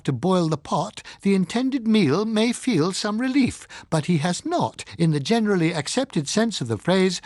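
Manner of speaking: a touch of a sober radio lecture; Bocca on the radio. Acted. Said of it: "Bocca made his comments on the situation over the air".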